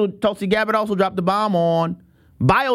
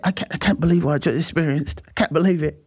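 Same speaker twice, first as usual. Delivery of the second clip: astonished visitor; 5 semitones lower than usual. Retold or imitated. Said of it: "He said".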